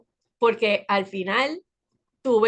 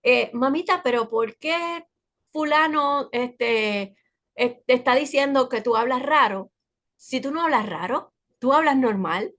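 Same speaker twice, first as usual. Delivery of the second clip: lightly voiced daughter asking her mom; a hint of a child questioning mamita; daughter imitation; 3 semitones higher than usual. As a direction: raise the pitch a touch, like a puzzled child. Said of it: "el otro día ella me dice".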